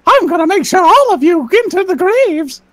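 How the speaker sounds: lightly voiced cheery mouse menace; mock-sinister Mickey; a touch of cartoon villainy; creepy Mickey Mouse voice. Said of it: "I used to do Mickey Mouse impressions".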